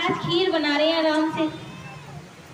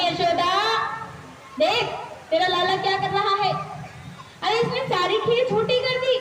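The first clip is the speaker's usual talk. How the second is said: rising mock indignation, higher at the end; angrier sage; 4 semitones higher than usual. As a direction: scold the mother, building in anger. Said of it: "थोड़ा और क्रोध आ गया".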